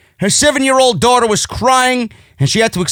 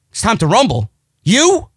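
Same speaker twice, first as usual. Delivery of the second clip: mock disbelief. Scoffs at the wrestler's quote.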